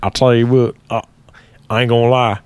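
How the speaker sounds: imitation redneck twang; mimicked redneck catchphrase; redneck accent. Shown as a demonstration. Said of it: "see if I can mimic you".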